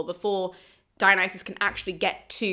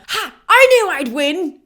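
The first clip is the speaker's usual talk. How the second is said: loud, higher, slow victory crow; triumphant gloat; 7 semitones higher, 9 dB louder than usual. Retold or imitated. Dionysus gloating after the frogs fall silent, loud crow. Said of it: "leads Dionysus to do a".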